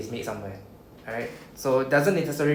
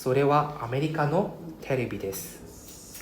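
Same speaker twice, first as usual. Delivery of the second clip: repeated model reading. Shown as a demonstration. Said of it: "Example one".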